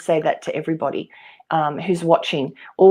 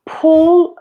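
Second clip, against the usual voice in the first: quick unvoiced whisper; breathy whispered aside; 11 semitones higher, 6 dB louder than usual. Real, not acted.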